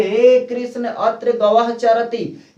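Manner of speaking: गोपियों की तरह लंबी पुकार; calling out. Shown as a demonstration. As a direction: call across the field to Krishna, slowly. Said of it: "तो बोलती है".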